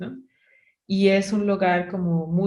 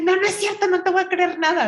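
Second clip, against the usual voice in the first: higher, louder whiny denial; stubborn mock refusal; 12 semitones higher, 4 dB louder than usual. Tired hiker to her guide, whiny and defiant. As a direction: refuse to believe him, childishly. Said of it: "la más insoportable del mundo".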